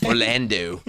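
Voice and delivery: Orlando accent. Shown as a demonstration. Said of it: "Does your Orlando accent pronounce it".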